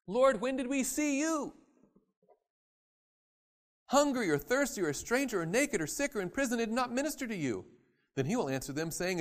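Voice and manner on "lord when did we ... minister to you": incredulous protest. Acted. Quoting the wicked protesting.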